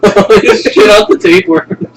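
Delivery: loud, high, slow; loud exclamation. Real, not acted. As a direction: yell it out laughing.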